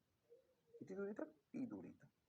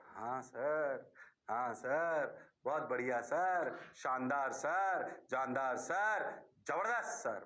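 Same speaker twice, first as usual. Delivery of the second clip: lower, lightly voiced praising students; mock student chorus; 7 semitones lower, much slower than usual. Teacher mimics class praising him, in a lower voice. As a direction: rattle off praise like eager students.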